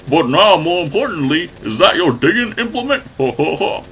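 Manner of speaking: high-pitched hillbilly villain voice; hillbilly accent. Acted. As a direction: voice a cackling hillbilly boss. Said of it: "I don't know why I gave him a hillbilly accent".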